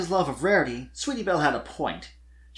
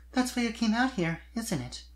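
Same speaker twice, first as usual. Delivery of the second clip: high, sudden filly voice; abrupt filly question; 9 semitones higher, 4 dB quieter than usual. Acted. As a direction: blurt it out as the young filly. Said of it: "Sweetie said abruptly".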